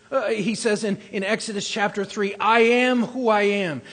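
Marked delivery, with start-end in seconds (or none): 2.4-3.8 loud proclamation. Acted. Preacher proclaims God's name.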